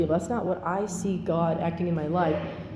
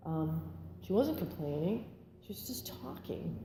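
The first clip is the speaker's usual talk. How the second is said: holding back tears; 11 dB quieter than usual. Real, not acted. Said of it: "I'm trying not to cry again".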